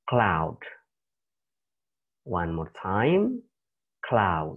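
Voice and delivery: "cloud" said as /klaʊd/ with a falling end; teacher demo of "cloud"; model pronunciation. Shown as a demonstration. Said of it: "you should read it".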